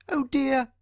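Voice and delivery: high, tiny squeaky worry; little mouse voice. Acted. John Mouse squeaking to himself in worry. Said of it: "he squeaked silently to himself".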